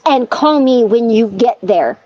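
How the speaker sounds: lightly voiced stern dad, slowing down. Husband ordering his wife home, slow mild dad voice. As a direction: lay down the law with a hint of dad. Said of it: "dad voice kicked in".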